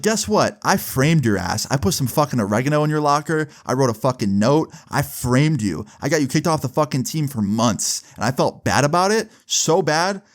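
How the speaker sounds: retold angry tirade, climbing in pitch; snapped confession. Kid tells his bully he framed him, snapped angry rant. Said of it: "that I snapped".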